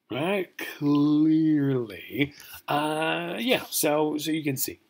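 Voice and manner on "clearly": CLEARLY drawn out long and loud; mock insistence. Lecturer jokingly insisting English is right, "Clearly" drawn out. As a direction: stretch out "Clearly" with a rising end.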